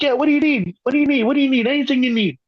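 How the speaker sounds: high mock Italian old-timer; hammed-up old Italian man beckoning. Old neighbor beckoning the teen, high mock Italian. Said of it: "He's like".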